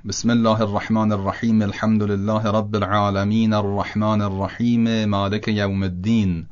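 measured Quran recitation, alif dropped; recitation with elisions. Shown as a demonstration. Teacher reciting Fatiha to students with the alifs dropped. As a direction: recite "الحمدلله" and "الرحمن" joined on, alif silent.

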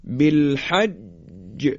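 بالحج drawn out, final ج echoing; slow recitation demo. Shown as a demonstration. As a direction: stretch بالحج, bounce the ج. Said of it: "حرف جیم توجه بفرمایید".

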